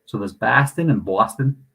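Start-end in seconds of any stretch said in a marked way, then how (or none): 0.3-0.9 imitating a Boston accent; put-on Boston pronunciation. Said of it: "people from Boston would say". 1.0-1.7 imitating a New York accent; put-on New York pronunciation. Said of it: "people from New York".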